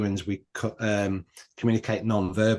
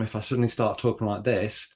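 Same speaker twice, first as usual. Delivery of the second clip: calm, level demonstration voice; settled, unraised everyday delivery; calm manner. Shown as a demonstration. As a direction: show the same words said calmly. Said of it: "in a calm manner".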